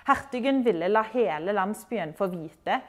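reading aloud. Acted. Teacher reading a novel passage to learners, gently. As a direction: read the passage like a storyteller. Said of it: "Jeg skal lese litt ifra den første boka".

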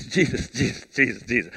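low, soothing repeated Jesus; calm him down like he's overexcited; patronizing Peter. Retold or imitated. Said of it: "puts his arm around Jesus".

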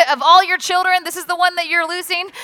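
high, loud mock disbelief; incredulous disbelief. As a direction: play the onlookers, amazed he lost the Messiah. People reacting to lost Messiah.

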